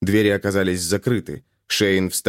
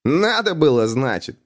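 giggling; 4 semitones higher than usual. A narrator's reading. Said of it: "хихикнул парень".

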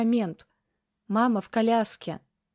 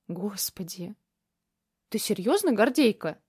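astonished grandmother. Acted. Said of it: "Бабушка от удивления".

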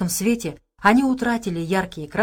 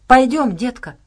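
higher, louder beckoning call; calling to child; 5 semitones higher, 6 dB louder than usual. A narrator's reading. Abrams calling the girl away with him, beckoning. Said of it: "позвал девочку Абрамс".

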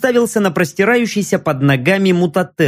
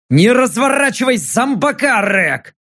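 growled order; 5 semitones higher than usual. Acted. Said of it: "рыкнул я".

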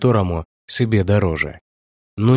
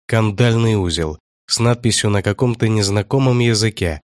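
ordinary delivery, nothing marked

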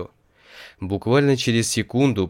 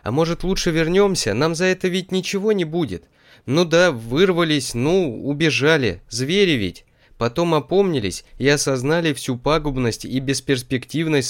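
high, anxious squeal of a plea; anxious piglet; 7 semitones higher than usual. A narrator's reading. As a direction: whine nervously to go back. Piglet pleading to go back.

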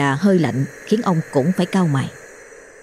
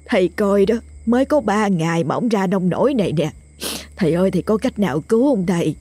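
tearful, hurried begging, pitched up; sobbing plea; 3 semitones higher than usual. Acted. The wife begs the exorcist to save her husband, sobbing. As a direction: beg through tears, words tumbling. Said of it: "Bà chỉ tay vào chồng khóc nấc".

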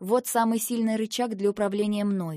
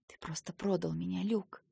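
softer, bitter hush; quietly; 7 dB quieter than usual. Acted. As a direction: say it quietly, hurt. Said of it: "тихо сказала я". (тихо, с горечью)

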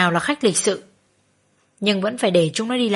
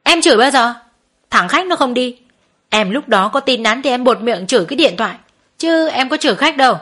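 mild indignant denial; arguing back; 3 semitones higher than usual. Acted. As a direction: protest her innocence, a bit heated. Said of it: "Nó cãi lại".

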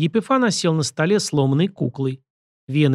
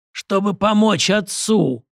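rasping corpse; 7 semitones higher, slower than usual. A narrator's reading. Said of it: "прохрипел мертвец".

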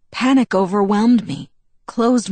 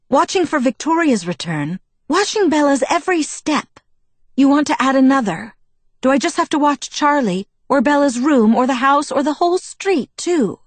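cold, rising, much higher and louder; each demand climbing higher in cold anger; 7 semitones higher, 3 dB louder than usual. A narrator's reading. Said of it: "Alice's voice was cold".

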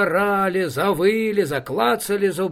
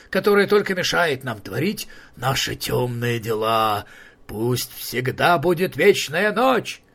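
troll king voice. Acted. Troll king Hisi decrees.

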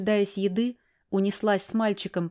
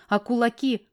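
ordinary delivery, nothing marked

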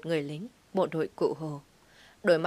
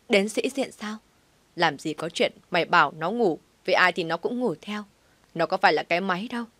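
yelling; 3 dB louder than usual. Acted. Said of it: "bỗng gào lên".

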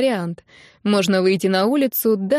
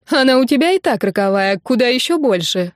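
smirking tease; 4 semitones higher, 3 dB louder than usual. Acted. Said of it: "усмехнулась подруга".

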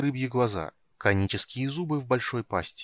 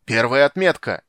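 loud leadsman's call; shouting; 3 semitones higher, 9 dB louder than usual. A narrator's reading. Sailor with the lead warns captain, shouting. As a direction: sing out the depth mark loudly. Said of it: "крикнул матрос с лотом".

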